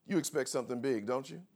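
ordinary talk, nothing marked

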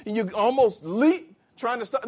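usual speaking voice

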